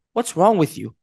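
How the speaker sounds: calm but faintly condescending question. Shown as a demonstration. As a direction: ease off the attack. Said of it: "just not as aggressive".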